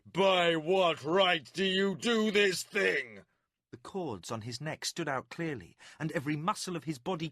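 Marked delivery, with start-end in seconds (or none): 0.0-3.2 slow, loud, higher furious demand; barely held rage bursting out; screamed demand. A narrator's reading. Warlord screaming at Milimber, furious.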